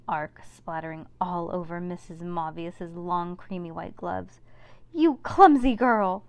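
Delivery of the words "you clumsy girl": shrill furious shriek, high and loud; wicked stepmother. Acted. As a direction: scream it at the clumsy girl. Mavius shouts at Cass.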